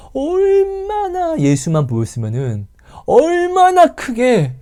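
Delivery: high, slow, rising preacher's build; fervent sermon climax; preaching. Acted. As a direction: drive the point home from the pulpit. Preaching at full force.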